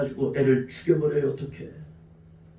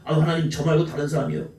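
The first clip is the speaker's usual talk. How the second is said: mock evasive believer; faster than usual. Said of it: "이런 것을 하라면".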